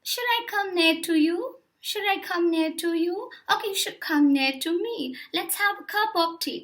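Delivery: lightly performed British Received Pronunciation; British RP accent. Shown as a demonstration. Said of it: "That's the accent".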